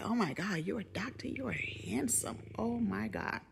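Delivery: breathy, high-pitched gushing at the doctor; a retold, half-whispered swoon; flirty gushing. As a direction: gush over him like a smitten patient.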